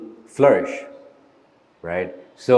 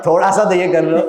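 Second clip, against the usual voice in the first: imitating a softer mom; 9 semitones higher, 5 dB louder, faster than usual. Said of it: "Can you be a little softer?".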